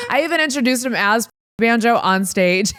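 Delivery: laughing through the words. Real, not acted. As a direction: laugh as you tell it. Laughing retelling.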